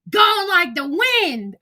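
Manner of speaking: slow, high sing-song gone like the wind; high drawn-out taunt; mock farewell. Real, not acted. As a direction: draw it out teasing. Mocking her leaving the live.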